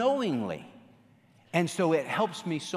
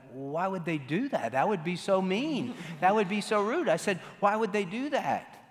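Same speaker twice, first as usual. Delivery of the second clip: mock indignation; 6 semitones higher than usual. Acts out own indignant naive answer.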